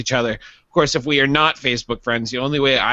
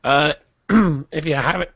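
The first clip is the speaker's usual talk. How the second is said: talking through a tickle in the throat; throat catching. Real, not acted. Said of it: "I'm choking".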